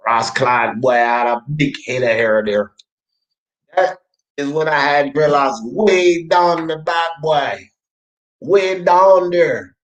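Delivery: badly faked Jamaican patois; terrible Jamaican accent. Streamer showing off old dreadlock photo, in terrible Jamaican accent. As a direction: put on a hammy Jamaican accent. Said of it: "terrible Jamaican accent".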